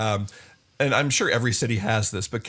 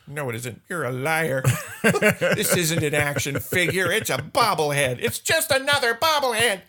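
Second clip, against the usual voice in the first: indignant and laughing; laughing retort; 5 semitones higher than usual. Retold or imitated. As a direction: laugh through a fake outrage. Retorting to toy maker, laughing.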